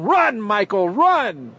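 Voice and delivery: light imitation of a touchdown call; imitating radio call. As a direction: cheer the runner on like the radio announcer. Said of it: "I always remember Gene Deckerhoff".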